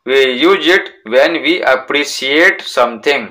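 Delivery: very slow, careful reading aloud; slow textbook reading. Shown as a demonstration. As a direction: read it out slowly for the class. Reading the textbook English slowly.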